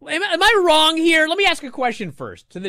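high, loud baffled appeal; stammered, exasperated question; incredulous. Real, not acted.

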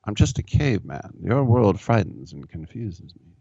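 folksy mock-humble plea to the court; caveman lawyer impression. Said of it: "I sound like Key Rock now".

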